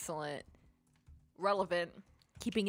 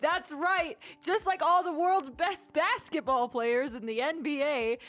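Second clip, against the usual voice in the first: announcer voice; 2 semitones higher than usual. Acted. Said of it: "You have to do your announcer voice".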